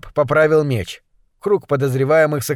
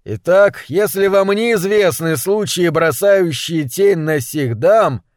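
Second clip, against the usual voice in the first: proclaiming; 3 semitones higher, slower than usual. A narrator's reading. Investigator addresses the crowd publicly.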